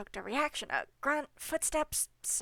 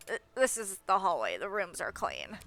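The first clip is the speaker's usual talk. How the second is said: nasal gatekeeper voice; 3 semitones lower than usual. Acted. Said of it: "plugging my nose when I do his voice".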